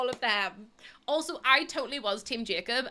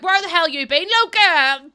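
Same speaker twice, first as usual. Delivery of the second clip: mock yell; 7 semitones higher, 11 dB louder than usual. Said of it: "I was like".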